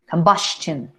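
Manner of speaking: combustion with the -stion sounding almost like a T; nearly a T before the final syllable; model pronunciation. Shown as a demonstration. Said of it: "Casi, casi diría una T".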